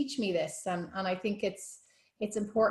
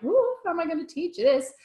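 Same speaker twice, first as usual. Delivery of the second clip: high anxious "Ooh" of a nervous trainee; mock worried trainee; 9 semitones higher, 6 dB louder than usual. Trainee voicing worry to the yoga teacher, mock anxious. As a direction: play up the worry, pitched up.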